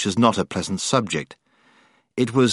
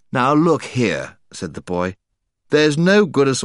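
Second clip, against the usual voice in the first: a touch of a schoolboy lecturer; lightly preachy, starting a lecture; earnest boy beginning a lecture; lecturing tone; 4 semitones higher than usual. Acted. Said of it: "talk rather like someone beginning a lecture".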